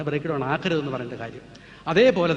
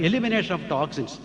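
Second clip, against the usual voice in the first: slow emphatic; much slower than usual. Shown as a demonstration. Spells out key term slowly.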